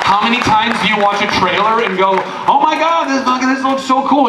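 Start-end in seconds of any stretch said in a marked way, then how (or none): 2.5-4.3 excited. Retold or imitated. Acted excited trailer reaction.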